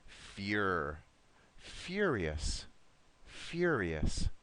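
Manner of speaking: "Furious" led by a separate, stretched FYUR syllable; pronunciation model. Shown as a demonstration. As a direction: say "fyur" alone, then "Furious" twice, evenly spaced. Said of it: "One more time with this one".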